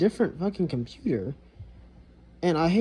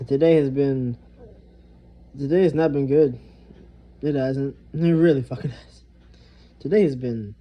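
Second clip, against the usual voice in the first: louder, heavy complaint; loud venting; 6 dB louder than usual. Real, not acted. Telling viewers today went badly, loud and weary. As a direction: unload the bad day, loud. Venting about a bad day.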